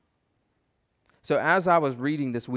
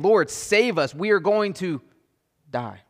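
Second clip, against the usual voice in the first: higher, louder cry for help that drops away on the last word; panicked plea; 4 semitones higher, 5 dB louder, slower than usual. Acted. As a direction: plead like sailors sure they will drown. Disciples wake Jesus in storm.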